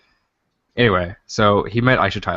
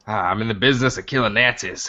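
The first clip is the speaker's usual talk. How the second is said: movie hero impression; 2 semitones higher than usual. Movie line quoted in a voice.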